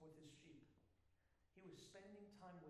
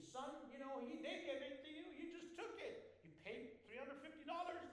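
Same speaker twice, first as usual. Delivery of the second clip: louder, higher coaxing voice of an inner tempter; self-justifying inner voice; 5 semitones higher, 5 dB louder than usual. Retold or imitated. Inner voice excuses keeping the Costco item, coaxing and sly. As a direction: talk yourself out of it, soothingly sly. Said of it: "part of you always justifies it".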